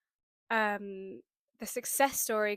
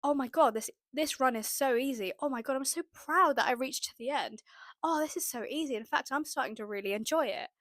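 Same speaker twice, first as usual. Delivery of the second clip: excited self-encouragement; 3 semitones higher than usual. Retold or imitated. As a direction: cheer yourself on mid-run. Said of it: "I had to keep saying".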